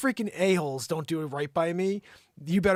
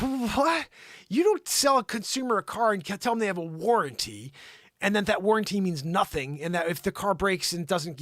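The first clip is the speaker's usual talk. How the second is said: heated retelling; 4 semitones higher, 5 dB louder than usual. Real, not acted. Arguing with Ford rep over warranty.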